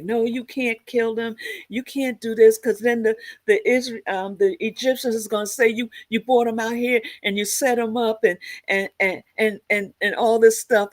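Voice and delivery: high-pitched pleading objection, retold; Moses. Moses talking the angry Father out of killing them, high-pitched protest. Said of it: "the Father got mad. He's like".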